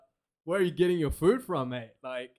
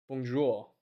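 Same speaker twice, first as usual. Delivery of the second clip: "Bonjour" again, softer, a muttered afterthought; softer echo; 4 semitones lower, 6 dB quieter than usual. Pretend. Streamer echoing his own greeting, softer and under his breath. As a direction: repeat "Bonjour" softly to yourself. Repeats greeting softly to himself.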